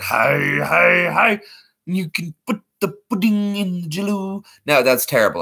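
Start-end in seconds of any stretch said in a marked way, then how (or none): 0.0-1.4 cartoon catchphrase climbing higher; three drawn-out heys, stepping up; big cartoon kid's rising call; Fat Albert. Shown as a demonstration. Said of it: "like what Fat Albert". 1.9-4.4 terrible comedian impression, pitched high; halting high voice, word by word; Bill Cosby. Shown as a demonstration. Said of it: "that was a terrible Bill, uh, uh, Bill Cosby".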